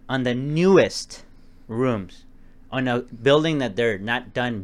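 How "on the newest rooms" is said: "newest" stretched out slowly with weight; slow down and lean on "newest"; emphasized newest. Shown as a demonstration. Stressing to co-host the newest unfinished rooms, slow emphasis on "newest". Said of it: "I'm gonna emphasize the word".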